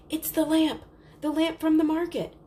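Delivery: high, loud excited cry; excited shout. Acted. Chandra spots the lamp and shouts to Dina, thrilled.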